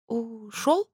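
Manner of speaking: высоко, тихо, с подъёмом; переспросить в недоумении; растерянный вопрос. A narrator's reading. (растерянно переспрашивая)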